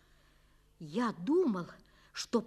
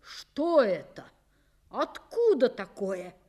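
frowning question; 4 dB louder, slower than usual. Acted. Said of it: "нахмурясь".

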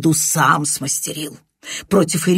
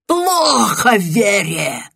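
cracked rooster voice; 5 semitones higher, 4 dB louder, much slower than usual. Acted. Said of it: "выкрикнул вдруг Андрей петушиным голосом".

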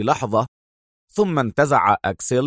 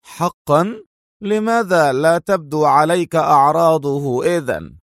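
higher, incredulous challenge; higher mock disbelief; exclaiming; 4 semitones higher than usual. A narrator's reading. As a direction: doubt thrown back at him. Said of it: "هتف أكسل".

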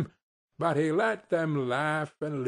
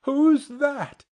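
high, loud startled question; startled call; 11 semitones higher, 5 dB louder than usual. Acted. Fred startled by an unexpected visitor, loud high question. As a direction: call out in sudden surprise.

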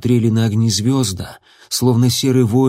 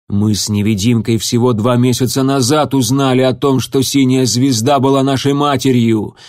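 loud; 3 dB louder than usual. Acted. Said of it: "громко продолжал камень".

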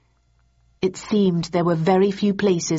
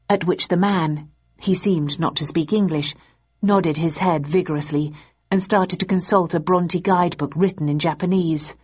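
ordinary delivery, nothing marked

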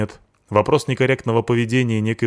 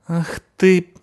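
sharp, higher outraged hiss; hissing indignation; 10 semitones higher than usual. Acted. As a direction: snap back offended. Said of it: "зашипела Швабра".

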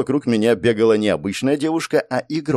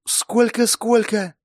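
much higher, stunned repeat; amazed girl; 12 semitones higher, much slower than usual. A narrator's reading. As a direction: she can't believe the number. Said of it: "Открыв от удивления рот".

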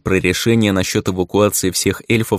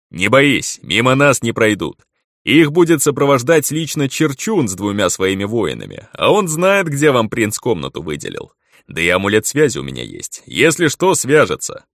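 jovial troll voice; 3 semitones higher than usual. Acted. Troll reassures hero.

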